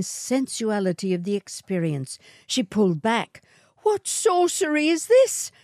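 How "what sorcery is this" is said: put-on high, alarmed young woman; Matilda demanding. A narrator's reading. Matilda pulls back from the swagman's kiss, demanding. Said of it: "she demanded".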